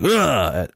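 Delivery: short mock yell of a cop throwing someone; imitated effortful grunt. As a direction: grunt as if heaving a man. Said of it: "grunts as he throws him".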